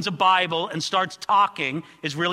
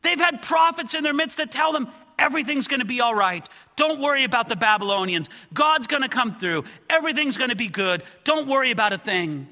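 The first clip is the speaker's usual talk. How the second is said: high, loud, urgent plea for the deceived people; pleading with God; 8 semitones higher, 3 dB louder than usual. Acted. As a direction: beg the Lord on their behalf, then mock the false prophets. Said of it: "He's trying to say".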